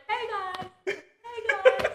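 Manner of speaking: laughing. Retold or imitated. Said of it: "We're like".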